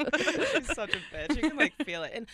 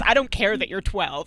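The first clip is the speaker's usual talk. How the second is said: angry father imitation; 2 semitones lower, 6 dB louder than usual. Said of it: "he literally says".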